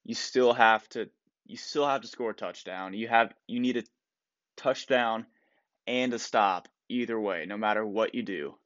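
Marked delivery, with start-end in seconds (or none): none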